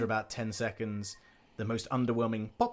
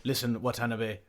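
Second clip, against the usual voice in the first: Gin voice; 11 dB louder than usual. Acted. Gin scolding a player.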